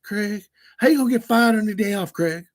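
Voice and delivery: high-pitched put-on movie character voice; Friday movie quote. Streamer quoting Friday at a viewer who hasn't seen it, high mock movie voice. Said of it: "how have you never seen Friday".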